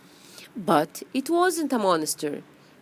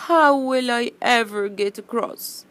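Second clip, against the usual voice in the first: plaintive, higher storybook wail; sad; 3 semitones higher, 4 dB louder, much faster than usual. Acted. Bee stuck before the stream, sad. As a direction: lament it helplessly, mildly hammed-up.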